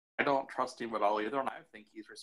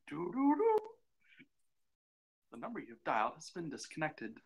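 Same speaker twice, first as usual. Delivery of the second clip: phone disconnect message; 6 semitones higher, 4 dB quieter than usual. Pretend. Joke that the call was hung up.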